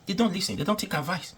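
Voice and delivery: pitched well up and pressed hard. Real, not acted. Repeating that the government never listens, emphatic and high.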